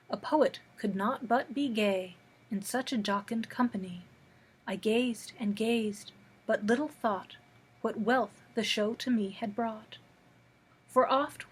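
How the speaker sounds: measured verse with pauses between lines; poem reading. Acted. Reads a poem aloud.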